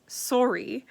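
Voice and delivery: SORRY with a rounded first vowel, like SORE-ee; drawn-out Canadian SORE-ee for SORRY; Canadian pronunciation. Shown as a demonstration. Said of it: "is ours when we say sorry".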